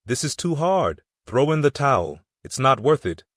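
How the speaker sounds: mock the mind that wants to quit; voice of doubt. Speaker voicing his doubting mind, mildly whiny. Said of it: "your mind will say".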